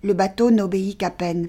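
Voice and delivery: ordinary delivery, nothing marked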